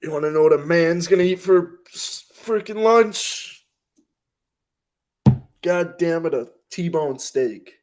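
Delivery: high, loud, strained tough-guy bluster; drawn-out, hammed-up macho declaration; mock macho man. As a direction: bellow it like an over-the-top manly man. Hammed-up macho answer about lunch.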